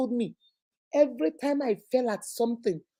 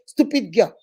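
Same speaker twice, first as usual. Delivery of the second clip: parent cursing; 5 dB louder than usual. Acted. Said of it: "You say".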